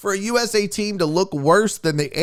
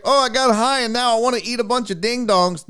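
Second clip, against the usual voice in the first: 1 mock stoner voice; 4 semitones higher than usual. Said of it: "Not just fucking".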